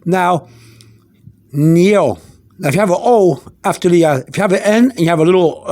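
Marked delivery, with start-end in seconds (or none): 1.5-2.2 "Nio" as one gliding syllable, nyo; "Nio", n melting into yo; ñ plus O sound. Shown as a demonstration. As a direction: say "Nio" as a clear, isolated nyo. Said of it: "the sound will be".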